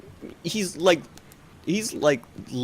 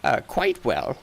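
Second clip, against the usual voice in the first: higher, hesitant merchant voice; doddery shopkeeper, apologetic; 8 semitones higher than usual. Acted. Shopkeeper answering whether one sees through snake eyes, hesitant. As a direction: let the customer down gently, then reassure.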